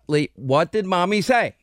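lightly mimicked mother's prompting; imitating mom's cadence. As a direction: play mom cautioning her little boy, half-seriously. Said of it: "Exact cadence, by the way".

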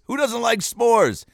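playful high question. Acted. Kids' s'mores ad line.

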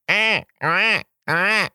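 high, clipped little eh sounds; high mock baby gator chirps; baby alligator noise. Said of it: "baby alligator noise".

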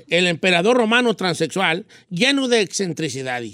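low-pitched neutral Spanish reading accent. Shown as a demonstration. Pupil rereading for his diction coach, neutral accent. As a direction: neutral accent, careful, endings not sung. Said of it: "cortar las palabras".

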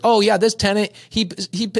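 put-on high, sing-song old seller; sweet old lady voice. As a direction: play a fibbing grandma, high and sweet.

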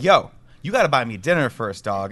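lightly put-on urban slang accent; mock street accent. Scorpion demanding dinner from its suitor, light mock street accent. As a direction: give the scorpion a touch of stereotyped street accent. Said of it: "why it's got a ghetto accent".

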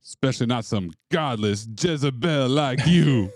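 slightly hammed Cajun scolding; Mama Boucher. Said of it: "Cajun accent as Mama Boucher".

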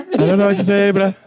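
put-on Afrikaans accent. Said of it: "English in an Afrikaans accent and tone".

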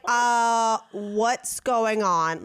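very slow, drawn-out confused question; mock puzzlement. Jacqueline wondering about the long wait, imitated in slow puzzlement. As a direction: drag out each word as if baffled. Acting out waiting companion's confusion.

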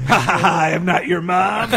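loud hammed-up taunting laugh; mock villain gloat. Acting out Freddy tricking Jason, mock gloating laughter. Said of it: "He's like".

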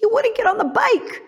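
sneering imitation of Sally; mocking Sally. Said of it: "She's like".

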